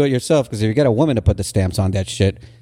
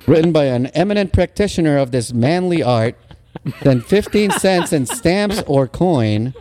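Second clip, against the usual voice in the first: mock announcer reading old ad copy; vintage ad read; 4 semitones higher than usual. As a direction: read it like a cheery bowling promo. Reads out a vintage ad.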